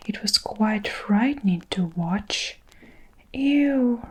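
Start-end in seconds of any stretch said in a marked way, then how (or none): 3.3-4.1 a mock roar kept in a whisper; a giant roaring in his sleep, kept hushed. Sleeping giant roaring from a nightmare, whispered roar. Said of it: "roared the Flesh Pump Eater".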